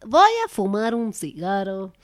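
put-on dad's accent on "Voy a fumar un cigarro"; lightly put-on dad's accent, unhurried. Daughter imitating her smoker dad's accent. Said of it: "porque mi papá habla con acento".

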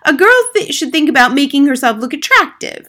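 loud, high-pitched mother voice; opinionated mother. Acted. Mother to teacher about how girls should be, opinionated. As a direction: lay down your opinion loudly.

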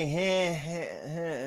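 mock unsure "heh", trailing off in level; hesitant "heh" sounds, retold; imitated uneasy "heh". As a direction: act out a doubtful little "heh". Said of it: "I got a little like".

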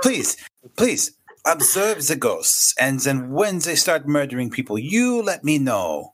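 sarcastic deference. Acted. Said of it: "I'm like".

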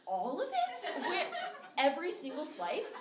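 high, laughing disbelief; can't believe the bread is gone; squeaky laughing shock; incredulous. Retold or imitated. Outraged friend over missing bread.

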